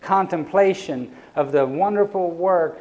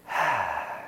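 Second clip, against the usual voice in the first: demonstrated sigh; 8 semitones lower, 7 dB quieter than usual. Shown as a demonstration. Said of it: "he sighed".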